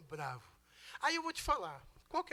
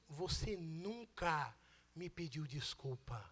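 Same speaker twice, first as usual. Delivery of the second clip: hurt wife; 6 semitones lower, 7 dB quieter, slower than usual. Retold or imitated. Wife's hurt words retold.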